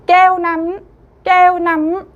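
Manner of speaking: 깨우남 with 우 high and loud; emphatic review. Shown as a demonstration. Teacher leads the review, emphatic. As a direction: lift the 우 of 깨우남. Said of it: "배운 단어 다시 한번 읽어보겠습니다".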